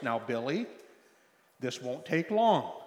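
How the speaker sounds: mildly calm father's voice; unhurried, measured reassurance; calm, steady. Retold or imitated. Dad to screaming boy in grocery store, calm and steady. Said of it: "calm, steady voice".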